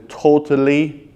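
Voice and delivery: a small push on totally; stress on totally. Shown as a demonstration. Trainer reassuring a client, light stress on totally. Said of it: "emphasis on the word totally".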